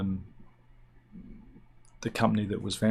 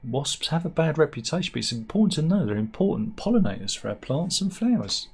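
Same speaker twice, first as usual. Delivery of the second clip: 1 quoting doctor; 5 semitones higher than usual. Retold or imitated. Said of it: "he said".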